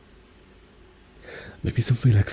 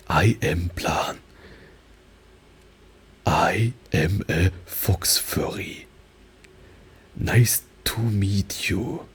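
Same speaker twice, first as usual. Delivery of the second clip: slow English with a heavy German accent; much slower than usual. Shown as a demonstration. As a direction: introduce yourself slowly, thick German accent. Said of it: "Then doing accents".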